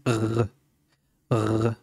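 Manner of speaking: "R" as a bare throaty ghayn, no vowel; letter with sukun. Shown as a demonstration. Teacher shows learners the sukun, vowelless "R". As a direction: hold "R" alone as a model sound. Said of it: "un soukoun pour prononcer".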